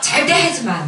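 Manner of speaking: "절대 하지 마" through a laugh; half-laughing while repeating the order; laughing at her own temper; laughing retold order. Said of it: "막 내가 이랬어요".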